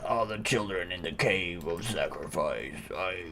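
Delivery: dying father. Acted. Dying father telling his son about Tiffany, low and fading. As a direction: gasp it out with failing breath.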